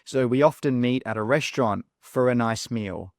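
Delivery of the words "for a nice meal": "for" reduced to fer, linked into "a"; weak for. Shown as a demonstration. Teacher reads the example sentence, weak for. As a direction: slide quickly through "for a" with schwas. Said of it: "when do we use weak forms".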